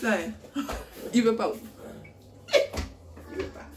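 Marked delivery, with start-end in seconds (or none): 2.5-3.7 whispered aside, slow. Real, not acted. Mother about her shy son, whispering. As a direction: hush it as if not to scare him.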